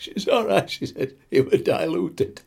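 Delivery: high reassuring auntie. Retold or imitated. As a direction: brush it off in a high voice. Auntie answers again.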